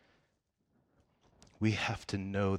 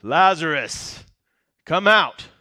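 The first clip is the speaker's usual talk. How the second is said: slow, much higher and louder summons; loud cry; 7 semitones higher, 16 dB louder, slower than usual. A narrator's reading. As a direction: call him out of the tomb with full force. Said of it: "he cried out in a loud voice".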